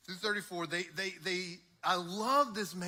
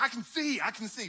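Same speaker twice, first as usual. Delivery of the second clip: excited; 5 semitones higher, 4 dB louder than usual. Retold or imitated. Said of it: "his excitement".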